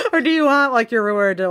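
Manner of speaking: hammed-up exasperated protest; fed up. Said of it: "gets fed up".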